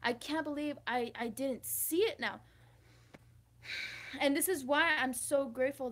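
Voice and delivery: excited bursts, loud on key words. Real, not acted. Vlogger thrilled that the lesson is gold, excited. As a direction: get carried away by your own insight. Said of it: "Sorry, I got excited".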